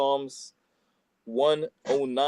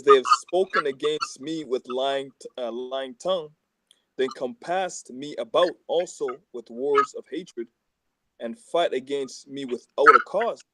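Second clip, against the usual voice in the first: louder, deliberate psalm reading; scripture reading; 4 dB louder, slower than usual. Acted. Reading Psalm 109 aloud to friends, in a proclaiming voice. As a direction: proclaim the verse to the group.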